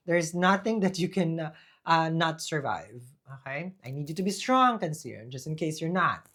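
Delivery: fired-up encouragement to the Cancer viewer. Real, not acted. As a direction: push it out, insisting they stay strong. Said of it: "I don't know why I'm yelling".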